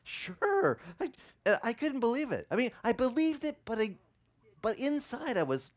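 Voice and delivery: high, laughing through the words; cracking up while telling it. Real, not acted.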